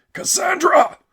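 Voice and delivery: full-voiced cry of warning; screamed warning. A narrator's reading. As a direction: scream at her to flee. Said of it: "He screamed".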